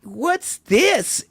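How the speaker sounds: high puzzled whine; Peggy Hill voice. Retold or imitated. Lady holding up the sign, high whiny question. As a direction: ask it like the cartoon housewife. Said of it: "And she goes".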